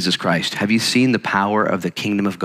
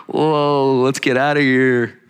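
concerned; slower than usual. Retold or imitated. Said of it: "faces looked a little bit concerned".

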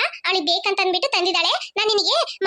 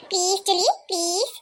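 pleading; 3 semitones lower, 3 dB quieter than usual. Acted. Begging friend for fish.

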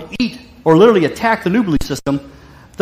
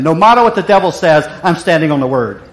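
put-on Italian accent. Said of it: "kind of my Italian accent".

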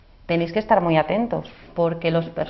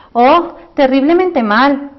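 high, slow, pained princess whine; cartoon princess; 7 semitones higher, 7 dB louder, slower than usual. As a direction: wail it like a delicate princess. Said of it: "dijo la princesa".

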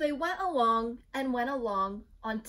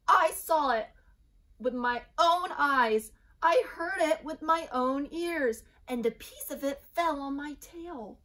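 frantic little chick; 5 semitones higher, 7 dB louder than usual. A narrator's reading. Chick convinces Cocky Locky, high and loud. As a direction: plead that you saw it yourself.

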